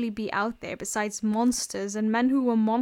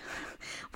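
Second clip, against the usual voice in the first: quiet, brief breath of a laugh; short understated chuckle; soft laugh; 15 dB quieter than usual. A narrator's reading. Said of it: "Wilbur laughed".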